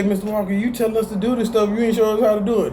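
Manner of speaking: mock a student complaining about him; lightly voiced complaining student; griping student. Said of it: "Don't sit up here and say".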